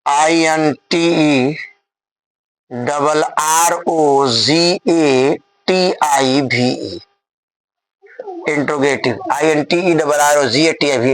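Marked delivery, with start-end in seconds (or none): 0.1-7.0 letters spelled out one by one, slowly; slow spelling out. Shown as a demonstration. Teacher to students, spelling slowly for dictation. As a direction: dictate each letter slowly for note-taking. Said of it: "धीरे धीरे बोल रहे हैं".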